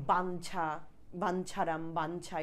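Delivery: বাঞ্ছা with a held n before chha; a half nasal inside বাঞ্ছা; demonstrated pronunciation. Shown as a demonstration. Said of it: "এরকম আমরা বলি".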